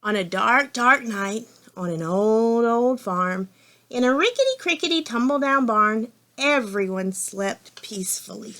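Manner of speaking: measured picture-book narration; story reading to children. A narrator's reading. Reader opening a farm story for children, measured storytelling. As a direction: read it out for little listeners, savouring the rhyme.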